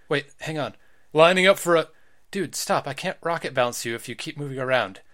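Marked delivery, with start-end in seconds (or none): 1.1-1.9 fighting game announcer. Acted. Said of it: "Stop using an announcer voice".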